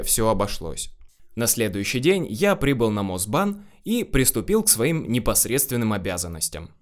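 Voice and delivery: plain reading voice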